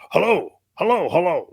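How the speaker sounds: high, loud repeated phone hello; phone answering. Retold or imitated. Guy answering the prank phone call, high loud hello. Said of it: "like that".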